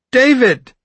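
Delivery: high, tight, pinched cry of shock. A narrator's reading. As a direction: squeeze the name out tight. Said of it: "he said in a pinched voice".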